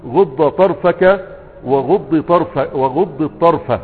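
slow, careful spelling-out of each vowel; teacher drawing out the words to show the kasra; slow demo. Shown as a demonstration. Teacher slowly demonstrating the Banu Ka'b kasra to students. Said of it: "ولغة بني كعب الكسر مطلقا".

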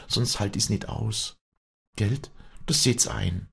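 high, fervent dialect voice; freedom-loving peasant woman pleading her case; Walli, passionate. Acted. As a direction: refuse the convent with feeling. Walli refuses convent, wants open sky.

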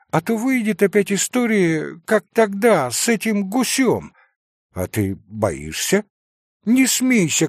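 usual speaking voice

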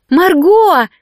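loud, high call across the yard; yelling from the porch. A narrator's reading. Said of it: "завопила с крыльца Марта".

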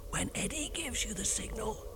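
hoarse whisper, voice nearly gone; lost voice whisper. Acted. DJ who lost his voice, whispering. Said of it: "sounding like this".

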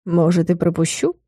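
low, soft teasing, with a wink; sly teasing vampire. A narrator's reading. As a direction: tease her softly like a sly vampire. Vampire teases, winking. (лукавый вампир, тихо и дразняще)

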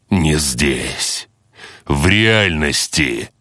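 slow cold brutal threat; menacing boss voice. Acted. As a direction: promise violence, slowly.

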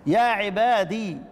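عبادي ending in a long ee with no ya sound, slow; silent ya. Shown as a demonstration. Teacher reciting Ya'qub's reading, slow. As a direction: recite with a held ee. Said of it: "إثبات الياء ساكنة".

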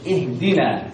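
اهدنا with a hard, voiced d and no breath; firm voiced dal. Shown as a demonstration. Teacher leading students' repetition, firm voiced dal. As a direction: close firmly on the d of اهدنا. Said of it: "الشدة والجهر الذي في الإيه؟".

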